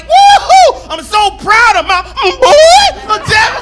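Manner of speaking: high, loud whoop breaking into mock sobs; hammed-up tearful shouting; cheer collapsing into crying. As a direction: force the proud cheer through tears. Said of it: "I tried to go right back into it".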